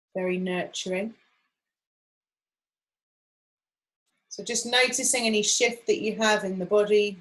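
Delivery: gentle meditation voice, long pauses between phrases; guided meditation. Acted. Guide settling a group into acupressure practice, calm and unhurried. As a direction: guide them gently, leaving room to breathe.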